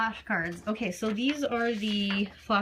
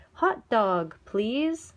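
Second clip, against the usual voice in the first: modeled answer; 2 semitones higher, 5 dB louder, much slower than usual. Shown as a demonstration. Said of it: "I'd say".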